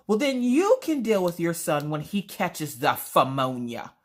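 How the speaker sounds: theatrical mock indignation; dramatic. Wife handing son over to husband, dramatic. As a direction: wash your hands of it melodramatically. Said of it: "being a little dramatic".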